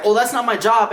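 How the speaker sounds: mocking girlfriend. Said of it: "she's like".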